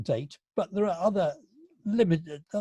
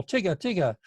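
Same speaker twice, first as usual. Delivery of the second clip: lightly mimicked mother's call, higher pitched; mum calling out; 4 semitones higher than usual. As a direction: pretend to call a child indoors, without shouting. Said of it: "his mum called out the door".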